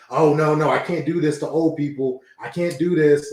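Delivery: whiny scared pleading; cowardly heel voice. Retold or imitated. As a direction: beg off like a coward. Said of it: "the kind of, like, coward heel".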